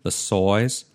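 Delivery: stretched Aussie vowels, size as soize; Australian accent. Shown as a demonstration. Showing a friend an Australian accent drill, in an Australian accent. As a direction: say tangerine with a broad Australian accent. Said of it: "vocal things to get your accent right".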